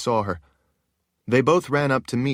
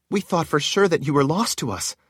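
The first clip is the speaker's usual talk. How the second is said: a hint of a higher woman's voice; lightly voiced sorceress; 7 semitones higher than usual. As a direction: speak with relief. Narrator voices Shale.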